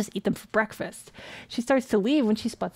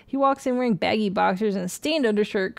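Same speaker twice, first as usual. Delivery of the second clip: ordinary delivery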